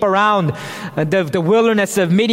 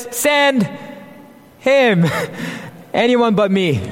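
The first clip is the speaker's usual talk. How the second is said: reluctant Moses; 3 semitones higher than usual. Pretend. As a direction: toss the job away with mock reluctance. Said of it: "And now he says".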